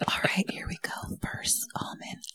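soft, whispery lead-in; quiet ASMR-like hush; hushed announcement. Real, not acted. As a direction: announce it in a slowing near whisper. Hushed start of nut-crunching mukbang.

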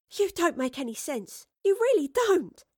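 high, exasperated complaint; huffy. A narrator's reading. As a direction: huff it out, dragging the last words. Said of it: "Astrid huffed".

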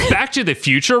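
high, excited squeal of a question; hammed-up astonished cry; mock scream. A narrator's reading. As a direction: shriek it in pitch, not volume. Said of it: "Ryan screamed".

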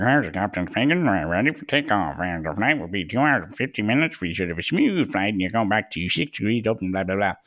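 mock pilot over the intercom; imitating a captain's cabin announcement. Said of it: "No one ever has spoken like that on a flight, but I gave it a go".

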